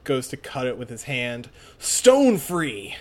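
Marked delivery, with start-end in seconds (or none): 1.8-2.9 high, loud battle call; battle cry. Acted. Heroine calls on her stand, battle cry. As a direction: call out your attack, raised and loud.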